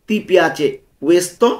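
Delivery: Ti piace questo said very slowly and clearly; slow the Italian for learners; slow pronunciation model. Shown as a demonstration. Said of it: "উচ্চারণগুলো ভালো মতো খেয়াল করব". (ধীরে ধীরে স্পষ্ট উচ্চারণ)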